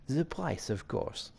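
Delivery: put-on French-accented villain, high on the opening; deal-maker with a French accent. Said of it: "you want the French accent".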